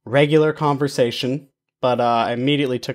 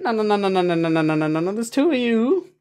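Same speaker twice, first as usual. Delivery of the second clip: mock excited flirting; 7 semitones higher than usual. Acted excited pickup quote.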